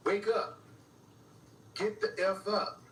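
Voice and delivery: imitated urging. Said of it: "And then they say, again".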